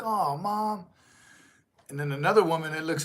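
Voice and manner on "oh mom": put-on boy whining. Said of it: "he's like".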